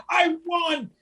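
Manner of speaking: put-on high, gloating little-kid brag; a light mock kid showing off; bragging kid. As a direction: crow like a child who just won. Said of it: "what kids do when they're having competition".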